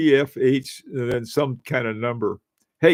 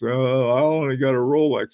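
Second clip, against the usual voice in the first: mildly sheepish, leaning on "only"; sheepish, apologetic. Retold or imitated. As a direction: imitate a guy a little embarrassed by his watch. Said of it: "That's how he said it".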